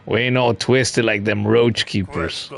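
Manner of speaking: mildly worried commoner, lightly acted; lightly voiced bug villager. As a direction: read the frightened bug's lines with a touch of accent. Voicing game bug dialogue.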